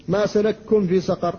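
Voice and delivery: سلككم with the two kafs run into one; kaf merged. Shown as a demonstration. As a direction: say سلككم as salakum, single kaf. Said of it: "إدغام الكاف". (سلككم بالإدغام)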